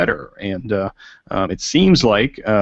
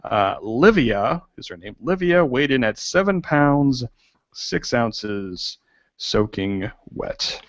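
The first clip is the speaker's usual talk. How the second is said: newsreader voice; 4 semitones higher than usual. Pretend. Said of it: "I will get my newsreader voice out".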